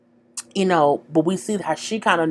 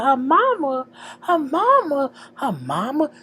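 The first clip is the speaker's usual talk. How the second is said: offended disbelief; 10 semitones higher, slower than usual. Retold or imitated. Offended echo of the insult.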